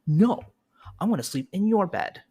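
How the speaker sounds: put-on a headstrong toddler digging in; kid refusing. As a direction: play the stubborn four-year-old refusing. Kid refusing, voiced by parent.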